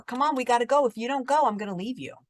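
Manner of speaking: mildly acted ultimatum; impatient grandpa. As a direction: mimic an exasperated grandparent. Grandpa threatening to leave kid.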